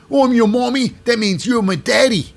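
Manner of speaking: put-on accent, high and loud; exaggerated accent impression; Rhea Ripley. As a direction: mimic her accent with hammed-up zeal. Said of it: "In that exact same accent".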